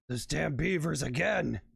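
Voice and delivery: a hint of a fed-up barkeep cursing; mildly exasperated outburst; angry bartender. Bartender slamming fist on bar, mild mock anger. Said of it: "slams his fist on the bar".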